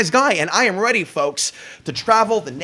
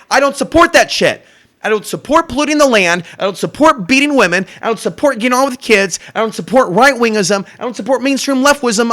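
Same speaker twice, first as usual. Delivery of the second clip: raised, loud repeated declarations; fired-up list, higher and louder; angry rant; 6 semitones higher, 5 dB louder than usual. Real, not acted. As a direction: hammer each "I don't support" in anger. Listing what he doesn't support.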